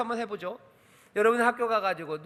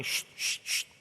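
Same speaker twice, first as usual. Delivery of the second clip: voiceless hushing 쉿, soft and breathy; shushing; 6 dB quieter, slower than usual. Retold or imitated. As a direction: hush someone sharply under your breath. Disciples hushing Bartimaeus.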